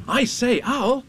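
put-on high, loud boyish call; excited boy. A narrator's reading. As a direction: call out to a friend in a high boy's voice. Boy calls to Owl excitedly.

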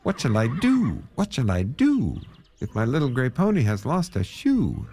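high, wailing lament; crying out in dismay. A narrator's reading. Man cries out on finding his pony's lost horseshoe, dismayed cry. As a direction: cry out with long falling ends. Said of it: "he cried out".

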